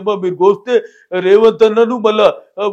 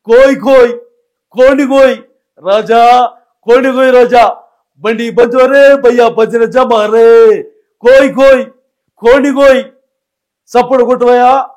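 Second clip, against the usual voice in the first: Posani impression; 2 semitones higher, 6 dB louder than usual. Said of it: "అన్న పోసాని కృష్ణమురళి గారు అన్న".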